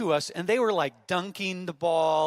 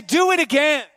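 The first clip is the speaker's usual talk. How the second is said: loud, high shout; shouted call; 11 semitones higher, 12 dB louder than usual. Shown as a demonstration. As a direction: belt it to every location.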